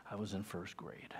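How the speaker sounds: whisper. Real, not acted. Whispered childhood memory.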